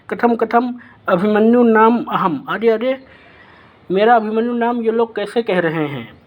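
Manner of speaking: a lightly voiced prince, startled at hearing his name; indignant young prince. Abhimanyu protesting to Brihannala, lightly voiced indignant prince.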